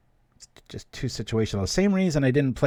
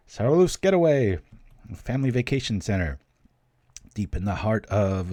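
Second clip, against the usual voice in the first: mock commercial announcer. Recites his commercial's announcement.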